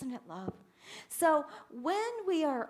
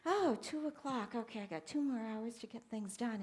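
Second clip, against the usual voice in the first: mildly dutiful; 5 dB quieter than usual. Shown as a demonstration. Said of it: "it makes a difference from saying".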